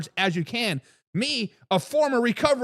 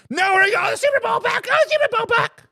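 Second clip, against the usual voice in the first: mock boasting fan; 12 semitones higher, 4 dB louder than usual. Mocking a boasting Vikings fan.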